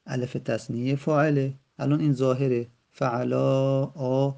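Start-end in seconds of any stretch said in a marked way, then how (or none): 2.9-4.3 فعلا آ with the final آ stretched long and slow; long alif drawn out. Shown as a demonstration. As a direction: draw out the آ of فعلا so the alif is heard. (آ پایانی فعلا را کشیده و آهسته بگو)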